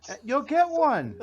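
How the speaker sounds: high, loud whine; whiny baby voice. Acted. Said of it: "whiny baby voice".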